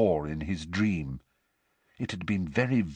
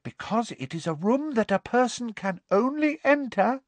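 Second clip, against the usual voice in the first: serious elf; 13 semitones higher than usual. A narrator's reading. Elf gravely explaining the Room of Requirement to Harry, earnest. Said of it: "said Dobby seriously".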